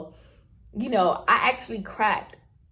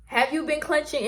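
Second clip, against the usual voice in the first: dentist voice; 9 semitones higher, 4 dB louder than usual. Retold or imitated. Dentist voiced in retold story.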